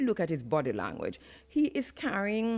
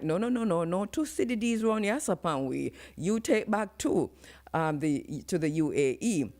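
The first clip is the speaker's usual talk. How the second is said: Caribbean vernacular voice. Retold or imitated. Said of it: "I'm saying this in the vernacular".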